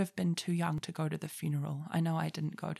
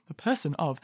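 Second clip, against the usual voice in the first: laughing; 4 semitones lower than usual. Real, not acted. Catching herself, she laughs while repeating. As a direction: say it through a small laugh.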